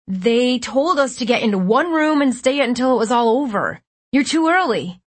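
high-pitched, anxious explaining; urgent protest. A narrator's reading. Kid telling rescuers they came too early, urgent.

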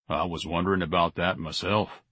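low-key, vague musing; Mister Zalatimo, vague. A narrator's reading. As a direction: wonder aloud absently. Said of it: "Mister Zalatimo said vaguely".

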